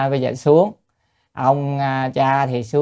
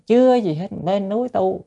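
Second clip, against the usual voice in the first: scoffing critic; 7 semitones higher than usual. Retold or imitated.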